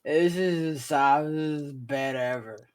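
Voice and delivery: put-on slow, drawn-out drunk; drunken contentment. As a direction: savor it slowly, half passed out. Drunk on floor answers "Comfortable?.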